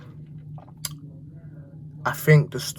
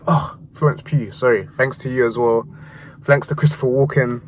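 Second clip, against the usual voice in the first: acceptance speech; 3 dB louder than usual. Pretend. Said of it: "acting like I'm doing a, an acceptance speech at the Oscars".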